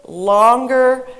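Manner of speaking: loud, stretched-out word; demonstratively lengthened; drawn out longer. Shown as a demonstration. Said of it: "was pronounced louder, longer".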